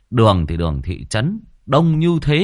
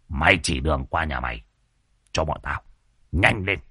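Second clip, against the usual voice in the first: much lower, swaggering; boastful sorcerer Phọt; 7 semitones lower than usual. A narrator's reading. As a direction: brag about two ghost-hunters.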